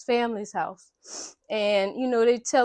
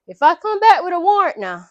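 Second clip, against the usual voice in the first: loud, raised-pitch mock warning; retold annoyed cop; 6 semitones higher, 7 dB louder than usual. Annoyed cop warns difficult roommate, retold irritation. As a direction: warn them like a fed-up cop, imitated. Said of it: "she done annoyed the cop at this point".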